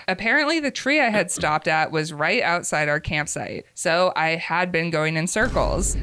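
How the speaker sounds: measured, expressive first-person storytelling; story narration. A narrator's reading. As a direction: read a confessional story aloud with lively emphasis. Reads a submitted story aloud.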